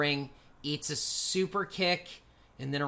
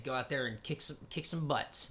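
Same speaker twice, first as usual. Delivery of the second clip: voices in head; 7 dB quieter than usual. Retold or imitated. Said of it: "they're saying".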